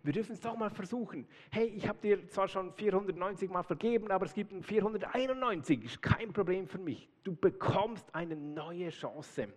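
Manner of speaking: lightly voiced, kind offer; forgiving Jesus. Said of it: "Er sagt, hey".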